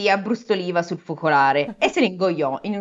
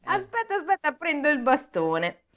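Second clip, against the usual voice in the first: unhurried abbot; 6 semitones higher than usual. Acted. Abbot dawdling, dressing.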